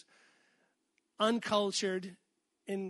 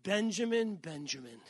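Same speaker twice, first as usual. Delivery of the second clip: frustrated parent. Retold or imitated. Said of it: "when you're frustrated with our kids".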